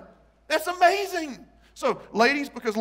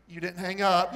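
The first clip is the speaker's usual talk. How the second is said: giggly accusation; 3 semitones lower than usual. Retold or imitated. Acting out late night phone call.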